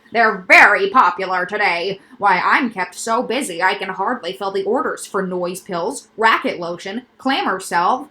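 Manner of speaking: loud, eager salesman doctor; quack doctor voice. Acted. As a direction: pitch the noises like a proud specialist. Doctor character voice.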